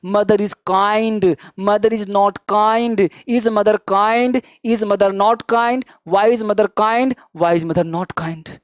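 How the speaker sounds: very slow, word by word; slow drill. Shown as a demonstration. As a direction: model it slowly so students can follow. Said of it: "धीरे धीरे बोलो". (धीरे-धीरे शब्द-शब्द बोलना)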